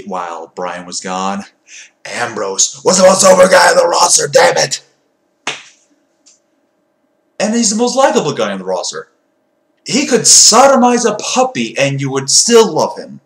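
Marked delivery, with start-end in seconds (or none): 2.0-13.2 loud, fired-up ranting; wild unhinged ranting. Real, not acted. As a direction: shout his praises. Loud heated praise.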